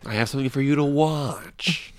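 lightly put-on measured voice; John Malkovich. Host doing an impression for co-host, lightly deliberate. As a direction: do a deliberate, slightly affected actor impression. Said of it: "this is my John Malkovich impression".

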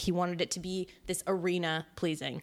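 slightly breathless from talking fast; running out of air mid-sentence; out of breath. Real, not acted. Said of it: "I'm, like, out of breath from talking already".

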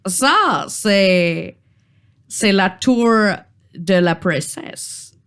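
put-on halting British-accented troll; hesitant explanation in mock British-accented French. Troll explains the tower behind him, halting British accent. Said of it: "charmant accent britannique".

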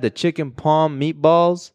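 slow, lightly put-on Italian-American accent; hint of hood Italian salesman. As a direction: savour it in a mock Italian accent. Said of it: "Why are you talking like that?".

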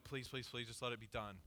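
low, hushed retold pleading; quiet inward plea. Preacher recalling wishing the game would end, low quiet plea. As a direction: plead under your breath, dropping the pitch.

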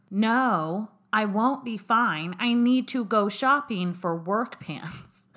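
mock exasperation at husband, words spaced out; hammed-up annoyed comeback to Aaron; irritated retort. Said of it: "I was so irritated".

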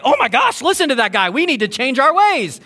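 slightly hammed-up, high-pitched gushing; mock urgent excitement; mock alarmed convert. Mocks crowd breaking out in revival.

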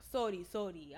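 lightly imitated Spanish-accented apology; a hint of Spanish accent. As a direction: apologize as a Spanish-speaking driver. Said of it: "This is all in a Spanish accent".

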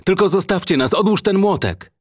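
very high, frantic begging; panicked plea, voice pushed up high; hysterical shouting. A narrator's reading. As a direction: beg for mercy at a high pitch throughout. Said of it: "wykrzykując histerycznie".

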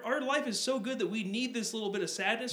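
mock the smug rich gawker; airy condescending parody of wealthy locals; mock rich person. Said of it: "They're like".

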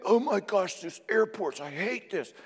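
high, exasperated mock rant fading out; mock exasperation. Speaker mocking himself at the airport, high mock exasperation. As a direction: huff like a fed-up traveller.

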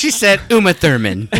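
giggling tease; laughing. Real, not acted. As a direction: say it through laughter. Laughing teasing.

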